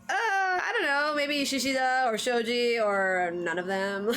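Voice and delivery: laughing imitation of a shrugging author; laughing shrug. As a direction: toss it off through a laugh. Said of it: "Horikoshi is like".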